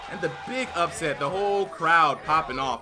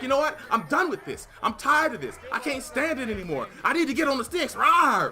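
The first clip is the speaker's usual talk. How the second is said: mock hype; 5 semitones higher than usual. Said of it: "He's like".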